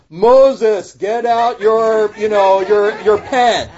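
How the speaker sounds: loud, high, drawn-out booming voice of God; supernatural voice. Acted. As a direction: proclaim it like a voice from the sky, hammed up. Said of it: "It sounds like this".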